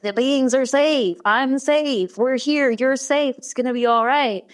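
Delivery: direct, motherly soothing as retold; retold parental reassurance. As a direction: reassure a frightened child point by point. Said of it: "comforted me in that, like, very direct parental way".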